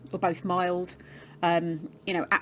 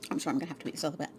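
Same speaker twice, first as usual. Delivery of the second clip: talking with a mouth full; words round a bite of jerky; 4 dB quieter, much faster than usual. Real, not acted. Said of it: "apologies for talking with my mouth full".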